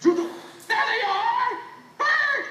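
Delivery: high, ecstatic whooping cries; elated yell, stretched out at the end; jubilant shout. Acted. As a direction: shout it out, overjoyed to be alive. Overjoyed at being alive again.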